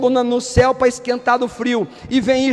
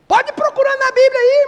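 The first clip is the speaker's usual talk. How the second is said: much higher and louder; loud exhortation; 11 semitones higher, 4 dB louder than usual. Real, not acted. Preacher urging brothers to search the Bible, loud. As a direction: call out to the congregation. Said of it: "preacher exhorts".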